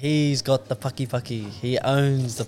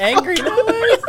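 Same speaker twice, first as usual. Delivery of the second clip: high loud laughing cry; laughing shout; 8 dB louder, slower than usual. Real, not acted. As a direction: shriek it through laughter.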